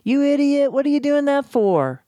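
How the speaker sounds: lightly hammed-up exasperated rebuke; mock angry scolding. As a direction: play the irritated person barking orders at someone. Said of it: "are expecting people to, again, to say that".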